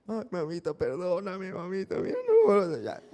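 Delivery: voz de niño lloroso, más aguda; niño suplicando. Retold or imitated. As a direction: suplica como un niño a punto de llorar. Niño pide perdón a mamá. (niño pidiéndole perdón a su mamá, lloriqueando)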